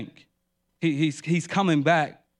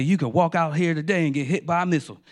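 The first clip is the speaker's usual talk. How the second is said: hurried, lightly put-on deacon voice; deacon's changed voice; faster than usual. Deacon scaring churchgoers during the invitation, lightly put-on voice. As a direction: lightly imitate a deacon's quick warning. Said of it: "He would change his voice".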